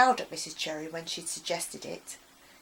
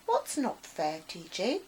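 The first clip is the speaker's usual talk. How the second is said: soft friendly voice. Acted. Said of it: "a soft, friendly voice called".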